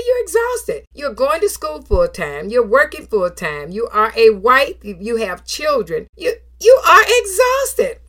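doctor firmly telling his patient she is exhausted; doctor's verdict. Retold or imitated. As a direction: hammer home the diagnosis. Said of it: "He said".

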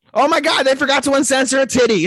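high, loud excited shout; excited exclamation. Real, not acted. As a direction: blurt it out thrilled. Excited shout about censorship.

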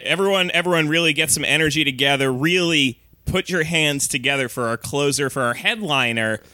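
big club emcee intro; emcee announcing. Pretend. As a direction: hype up the headliner. Mock emcee introducing headliner.

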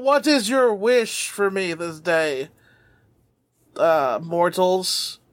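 slow, booming dragon ritual; grand wish-granting dragon. Acted. Dragon grants wishes, summoning ritual.

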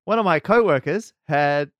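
booming radio-play opening, loud; too strong start. Shown as a demonstration. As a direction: come in big and loud like old radio. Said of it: "I came in too strong".

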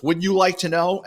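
put-on high-pitched retort as an old lady; lightly voiced old woman's comeback. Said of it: "And the old lady goes".

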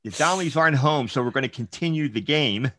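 giggling through the words; laughing kid voice. Retold or imitated. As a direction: laugh while planning mischief. Kids deciding to keep playing.

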